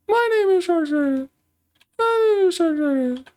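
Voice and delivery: very high, cartoonish chirpy character voice; Miitomo voice. Drawing streamer says goodnight in her Miitomo voice, very high and squeaky. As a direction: squeak it out like a tiny avatar. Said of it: "That's my Miitomo voice".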